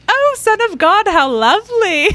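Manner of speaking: high, loud, airy British imitation; mock a cheerful British mentor; British accent. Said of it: "in his British accent".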